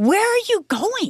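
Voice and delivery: high, slow, shocked yelling.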